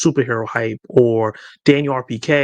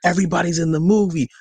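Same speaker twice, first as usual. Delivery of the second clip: higher-pitched mock awe; lightly acted fan excitement; imitating excited fans; 5 semitones higher than usual. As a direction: marvel like a convinced fan. Voices fans believing fake images.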